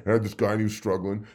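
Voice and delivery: quick mock of Austin; Austin's voice. Mocking how Austin talks, quick teasing voice. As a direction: rattle it off fast, teasing Austin. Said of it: "that's how you talk".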